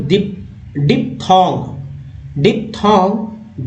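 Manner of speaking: डिप्थोंग said slowly, each sound drawn out; slow careful pronunciation. Shown as a demonstration. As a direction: stretch डिप्थोंग into clear syllables. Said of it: "डिप्थोंग यानी double vowel". (डिप्थोंग धीरे-धीरे साफ़ बोलें)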